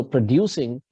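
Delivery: "producing" said pro-DU-cing; stress on second syllable. Shown as a demonstration. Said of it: "putting an accent on the second syllable".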